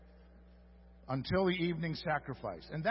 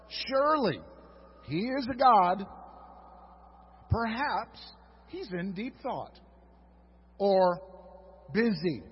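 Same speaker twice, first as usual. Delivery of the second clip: sarcastic heckling with a lift; mocking taunt. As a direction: tease them about their sleeping god. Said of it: "Elijah began to taunt them".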